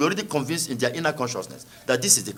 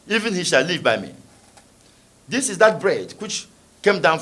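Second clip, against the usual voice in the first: measured, solemn Bible reading; scripture reading. Acted. Preacher reading John to the congregation, solemn. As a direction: read the passage with reverent weight. Reads scripture aloud in church.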